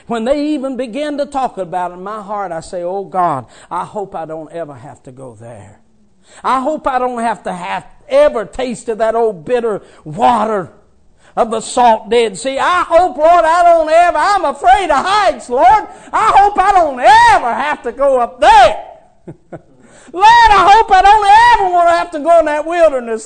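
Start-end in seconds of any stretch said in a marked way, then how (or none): 2.8-18.9 mock fearful prayer. Preacher acting out a scared prayer to God, louder. 20.1-23.3 fast, high, loud pleading prayer; mock fearful plea. Preacher pleading with the Lord in mock fear.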